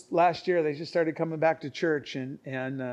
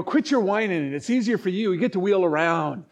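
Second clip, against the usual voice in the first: teasing retort; 3 semitones higher, 4 dB louder than usual. Retold or imitated. Retold teasing retort to wheelchair user.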